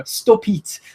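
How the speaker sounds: high pleading stop it, stretched out; begging stop it. Retold or imitated. Wale on his knees begging the Usos, in a high pleading voice. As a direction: beg them to stop, laughing. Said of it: "walking on his knees".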